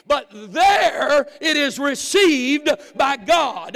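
loud, high, ringing preacher cadence; full-force sermon voice; preaching at full force. Acted. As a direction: drive the point home to the congregation. Preaching Paul's words, rising.

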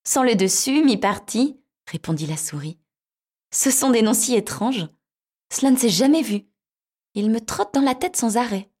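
high, bright little mouse; squeaky mouse voice. Acted. Mouse voiced in fairy tale.

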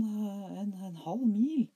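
put-on very high, loud little boy. A narrator's reading. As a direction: chirp it like a small boy. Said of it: "svarte Smørbukk".

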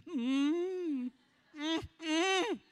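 lazy hums of agreement; mock mooing. Mocking churchgoers humming at a sermon. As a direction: hum along like a cow. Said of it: "we go".

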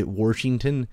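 "Washington" said as "Warshington"; R put in Washington. Shown as a demonstration. Mocking northern speakers, "Washington" with an added R. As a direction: slip an R into the first syllable of "Washington". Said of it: "the ones that put an R in Washington".

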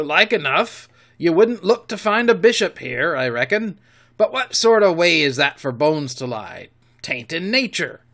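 rough-voiced pirate quartermaster; pirate Silver. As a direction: growl it like a sly sea cook. Long John Silver voiced.

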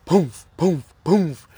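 short puffed thud sounds, spaced out; hollow imitated footfalls; imitated stomping. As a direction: mimic heavy stomps in sand. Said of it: "You can hear".

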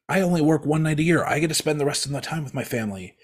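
lightly voiced Santa giving friendly advice; Santa Claus. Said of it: "Santa's like".

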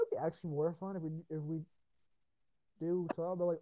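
normal talking voice

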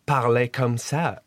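put-on English-accented French. Guest recalls wife's charming talk, English-accented French. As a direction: imitate British wife's French. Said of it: "she was".

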